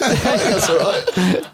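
put-on northern accent. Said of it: "generic northern accent".

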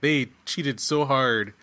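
slow, drawn-out emphasis; emphatic concession. Real, not acted. Host conceding the show cheated, slow and emphatic. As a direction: stretch it out for full emphasis.

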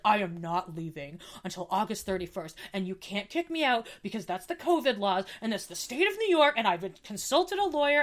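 indignant retort, rising in pitch; bitchy. Retold or imitated. Firing back at the landlord over moving out, bitchy. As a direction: lay down the law, pitch climbing. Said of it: "I was such a bitch about it".

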